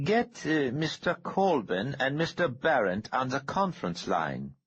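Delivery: the calm threat of a man holding a bomb trigger; menacing Harrington. A narrator's reading. Bomber orders call.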